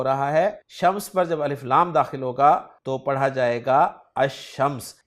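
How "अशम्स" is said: अशम्स said ash-shams with a doubled sh; अशम्स: long double sh after a; Arabic article demo. Shown as a demonstration. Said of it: "यानी लाम को नहीं पढ़ेंगे".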